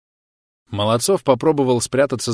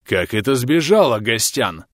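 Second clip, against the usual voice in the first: hoarse. Acted. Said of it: "прохрипел он".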